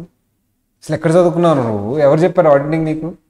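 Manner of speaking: lightly acted yell at a trainee; mock angry scolding. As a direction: scold the assistant in mock anger. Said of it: "అని ఇట్లా అరిచేస్తున్నాను".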